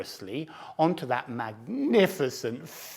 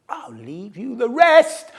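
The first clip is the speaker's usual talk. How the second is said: higher, louder taunting call; cheeky shout; 9 semitones higher, 8 dB louder than usual. Acted. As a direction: shout it back as you run off. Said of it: "I shouted".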